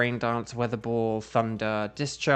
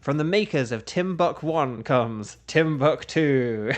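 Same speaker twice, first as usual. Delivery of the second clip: movie trailer voice. Retold or imitated. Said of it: "in a trailer voice as well".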